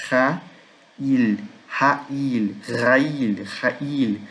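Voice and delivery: "Ra-il" as RÁ-il with breathed strong r; "rail" split slowly, then joined, as a model; stress on first syllable. Shown as a demonstration. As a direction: lean on "ra", let "il" fall. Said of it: "Outra sílaba tônica aqui".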